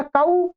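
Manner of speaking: कऊ said as ka-oo, a clear two-part au glide; Sanskrit-style कऊ, a-u glide; Sanskrit au sound. Shown as a demonstration. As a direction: pronounce कऊ with ka then oo, not Hindi ko. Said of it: "कऊ बोलेंगे आप".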